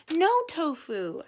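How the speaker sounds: high, loud, drawn-out scolding; yelling at dog. A narrator's reading. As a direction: yell to stop a misbehaving dog. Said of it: "I yell at him".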